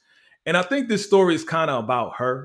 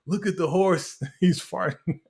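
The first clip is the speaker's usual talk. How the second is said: put-on insistent kid; 5 semitones higher than usual. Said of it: "It's like".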